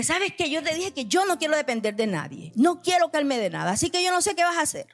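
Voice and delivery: mock defiant quarrel. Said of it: "me agarré a pelear con Dios".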